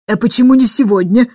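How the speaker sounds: exclaiming. Acted. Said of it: "воскликнула мисс Эндрю".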